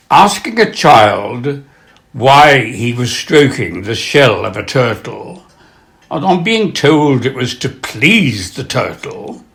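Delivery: measured storytelling with pauses between phrases; anecdote reading. Acted. Telling an audience about a child and turtle, measured reading. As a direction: set up the joke unhurriedly.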